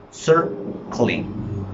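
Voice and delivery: "Circling" in two separated parts, CIR first and firm; split-syllable stress. Shown as a demonstration. Teacher confirming the answer, split CIR-cling in "Circling". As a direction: pause after CIR in "Circling". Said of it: "Which one is the stressed syllable?".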